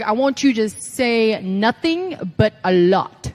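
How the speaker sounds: slow, deliberate trainer impression; Dusty Rhodes. Trainer giving a riddling direction, slow and weighty impression. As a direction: draw it out, then land the ending loud. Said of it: "this is a Dusty impression".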